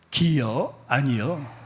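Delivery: light Chungcheong lilt on 기여, 아니여; a mild Chungcheong dialect question. Shown as a demonstration. Preacher demonstrating Chungcheong dialect, lightly. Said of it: "충청도 사투리로".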